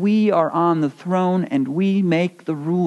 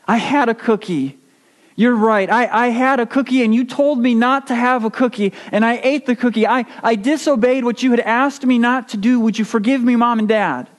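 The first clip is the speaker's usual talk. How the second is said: pleading, higher and faster; a lightly acted weepy child; tearful confession; 5 semitones higher than usual. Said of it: "by breaking down and weeping".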